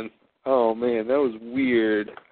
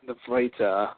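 put-on Aussie accent; 3 dB quieter, slower than usual. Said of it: "That's Aussie English".

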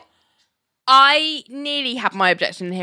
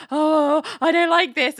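mock unease; 8 semitones higher than usual. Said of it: "if she's, like, about to creep up on something scary".

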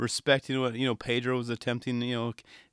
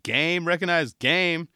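put-on old skater's nod; 5 semitones higher, 3 dB louder, slower than usual. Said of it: "He's like".

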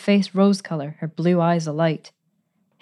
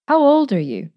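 sudden, much higher question; a man cutting in abruptly, pitched higher; 9 semitones higher, 3 dB louder than usual. A narrator's reading. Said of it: "he asked abruptly".

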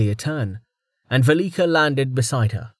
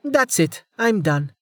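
exasperated; 9 semitones higher than usual. Acted. Amelia loses patience.

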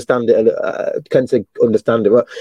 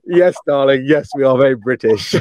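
posh British. Acted. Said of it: "I was like".

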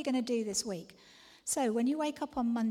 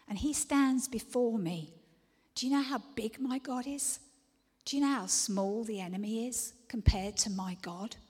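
louder preaching, building up; rising proclamation; 4 dB louder than usual. Acted. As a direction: proclaim it to the congregation.

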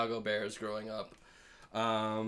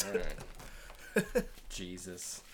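helium voice; 7 semitones lower, 6 dB quieter, much slower than usual. Real, not acted. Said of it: "like I'm in a helium voice".

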